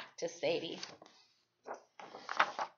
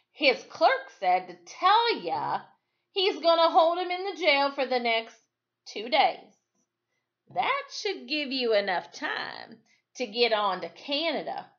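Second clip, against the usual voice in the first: trumpeting; 4 semitones higher, 3 dB louder than usual. Acted. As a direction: trumpet the good news out loud. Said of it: "Ingersoll trumpeted".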